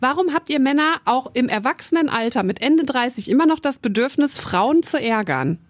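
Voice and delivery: real exasperation; exasperated questioning. Real, not acted. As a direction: demand an answer, stretching the last words. Rant about men teasing women.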